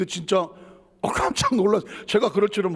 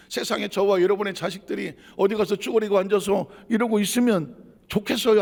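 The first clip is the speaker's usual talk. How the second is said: usual speaking voice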